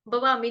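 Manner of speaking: बवामी starting on a plain ba; unaspirated b. Shown as a demonstration. Teacher warns against misreading, बवामी with plain b. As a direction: drop the breath from the first sound of बवामी. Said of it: "नहीं पढ़ना".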